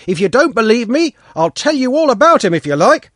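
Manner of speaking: keen to tell all; eager boy. A narrator's reading. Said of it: "Pashka repeated doggedly".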